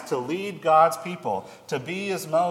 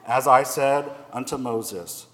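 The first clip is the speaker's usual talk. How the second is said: steady, slightly raised voice reading scripture aloud; 4 dB louder than usual. Acted. Pastor reading God's charge to Joshua to the congregation, solemn scripture reading. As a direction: read it like the Bible before the congregation.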